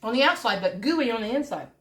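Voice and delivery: talking while crunching a cookie. Real, not acted. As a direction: mouth full of crispy cookie. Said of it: "You can hear me crunching?".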